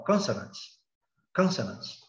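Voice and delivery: "consonants" stressed on CON; first-syllable stress. Shown as a demonstration. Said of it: "a sílaba forte é o".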